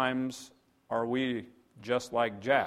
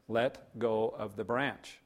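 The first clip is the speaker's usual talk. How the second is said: "Let go of the branch" slow and deliberate; measured, word-by-word instruction; slow repeated command; 2 semitones lower, 4 dB quieter, slower than usual. Acted. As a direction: space out the words calmly and firmly.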